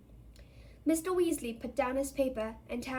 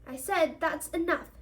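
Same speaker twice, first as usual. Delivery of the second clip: stern scolding; 5 semitones higher, 5 dB louder than usual. A narrator's reading. Mother scolds the joking twins.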